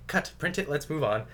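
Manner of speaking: a hint of a breezy film director; director calling cut. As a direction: wrap the take with a light mock call. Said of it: "he'd just be like".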